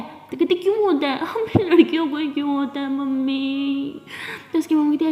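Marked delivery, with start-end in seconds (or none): 0.5-4.0 laughing complaint. Acted. Daughter laughing while complaining.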